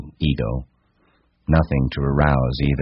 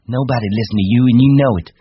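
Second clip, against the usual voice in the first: high, raised voice in a quarrel; loud, high scornful woman; defiant; 9 semitones higher, 6 dB louder, faster than usual. Acted. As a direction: dismiss him hotly, pitched up. Wife defies Candy in quarrel.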